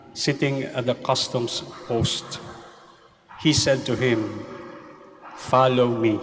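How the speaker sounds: slow, solemn Gospel reading; Gospel proclamation. Acted. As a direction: proclaim it from the pulpit.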